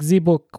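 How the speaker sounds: "The" in "The book" said as "zee". Shown as a demonstration. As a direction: open "The book" with a buzzing Z instead of TH. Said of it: "why don't you say T H is Z".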